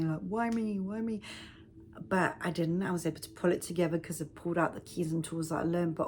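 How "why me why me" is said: mock self-pity. Speaker mimics the self-pity she could have fallen into, mock self-pity. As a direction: imitate a "woe is me" wail, kept small. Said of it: "Woe is me".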